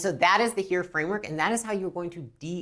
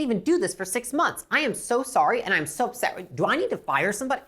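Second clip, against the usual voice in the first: higher, emphatic outrage on the customer's behalf; be more upset than they are; escalated empathy; 4 semitones higher than usual. Shown as a demonstration. Rep matching and outdoing the customer's frustration, emphatic sympathetic outrage. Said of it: "escalate beyond their upsetness".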